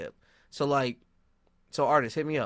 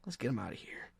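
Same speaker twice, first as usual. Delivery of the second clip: muttered plotting; 9 semitones lower, 9 dB quieter, faster than usual. Retold or imitated. Retold angry plotting, very quiet.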